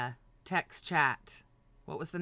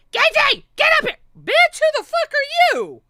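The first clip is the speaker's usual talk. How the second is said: high, much louder mock yell; imitated yelling; 13 dB louder than usual. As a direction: call him up like a bossy host. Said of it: "Fupa started yelling".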